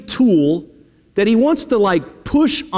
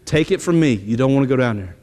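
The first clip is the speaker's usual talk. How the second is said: testimony voice; 9 semitones lower than usual. Retold or imitated. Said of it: "be a testimony to somebody and say".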